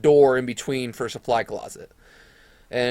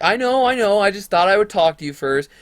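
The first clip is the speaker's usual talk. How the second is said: higher, louder placating woman's voice; imitated principal; 7 semitones higher, 5 dB louder than usual. Principal tells him she just wanted to talk, high imitation. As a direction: mimic the principal hurrying to reassure.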